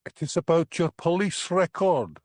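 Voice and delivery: worried Highland lilt, hissing esses; sibilant Highland accent. A narrator's reading. Policeman confronting suspect, worried sibilant Highland accent. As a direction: let the esses hiss with worry. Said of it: "his accent becoming more sibilant with worry".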